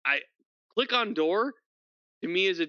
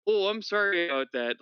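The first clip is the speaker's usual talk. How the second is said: Northern sorry; 5 semitones higher, 4 dB louder than usual. Retold or imitated. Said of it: "just be like".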